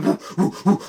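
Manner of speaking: repeated "woo" as a flying craft; woo-woo spaceship noise; imitated craft whoosh. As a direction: mimic a spaceship zipping about with woos. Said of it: "the craft is going".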